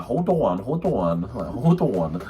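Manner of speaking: "on" in "Hold on" said as a long "awn"; repeated "hold on" with a swooping "awn" vowel; drawn-out catchphrase. Retold or imitated. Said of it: "Like, A, A W N".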